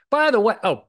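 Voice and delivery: loud, high sudden interjection; excited by the way; sudden aside. Real, not acted. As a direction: blurt it out as a thought hits.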